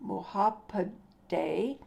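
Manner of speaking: "Muhapadhyay" sounded out slowly, syllable by syllable; "Muhapadhyay" broken up, slow, ending on a rising "day"; careful pronunciation. Shown as a demonstration. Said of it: "I'll pronounce".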